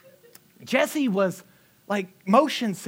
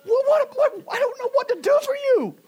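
much higher and louder, helpless; a squeaky, flustered protest; exasperated bewilderment; 6 dB louder than usual. Retold or imitated. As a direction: throw up your hands in disbelief. Exasperated at impossible demands.

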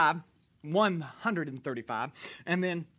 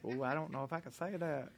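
mock hesitant mumble; 5 semitones lower, 11 dB quieter than usual. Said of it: "Some of you was like".

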